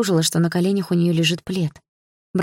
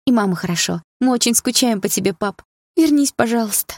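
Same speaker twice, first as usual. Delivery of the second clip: higher, plaintive begging; plaintive plea; 5 semitones higher than usual. Acted. Daughter begging her dead father in a dream to return, plaintive. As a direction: beg him to come back like a child. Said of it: "жалобно попросила я".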